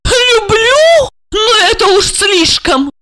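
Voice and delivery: very high, aghast outburst; choking indignation. A narrator's reading. Wife appalled at husband's love claim, choking indignation. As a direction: nearly choke with outrage, pitched high. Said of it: "едва не задохнулась она".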